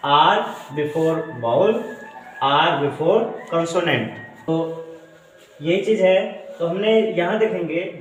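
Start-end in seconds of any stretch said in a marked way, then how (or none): 0.1-4.1 before vowel and R before consonant spelled out slowly; slow teacher's dictation; slow, careful. Shown as a demonstration. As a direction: lay out each rule word by word. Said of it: "दो rule बताए गए".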